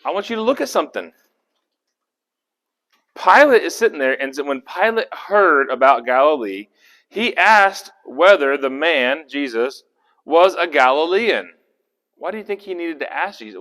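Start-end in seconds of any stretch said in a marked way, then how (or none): 3.2-11.5 scripture reading. A narrator's reading. Rereads the verse with emphasis.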